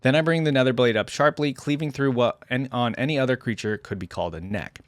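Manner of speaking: deliberate, solemn narration with defiant peaks; dramatic story reading. A narrator's reading. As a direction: read a hunted warrior's account with gravity. Reads first-person story aloud.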